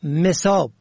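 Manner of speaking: مصاب with "e" after the م, "mesob"; first vowel kasra. Shown as a demonstration. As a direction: say مصاب as me-SOB. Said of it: "بین کلمات مصاب".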